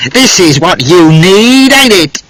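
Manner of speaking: high, slow mock yell. A narrator's reading. Man yells at Charlotte while attacking, high mock yell. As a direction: snarl it up high at her, slowly. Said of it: "He yelled".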